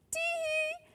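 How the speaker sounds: high, soft "tee-hee"; mischievous giggle. A narrator's reading. Henry hiding behind the rocking chair, mischievous giggle. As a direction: squeak out a little sneaky giggle.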